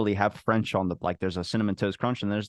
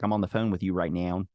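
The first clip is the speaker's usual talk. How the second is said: lightly put-on Baltimore accent; grandpa's Baltimore accent. Retelling grandpa on the phone, Baltimore accent. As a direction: imitate grandpa's Baltimore vowels, especially on "now". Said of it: "he's from Baltimore".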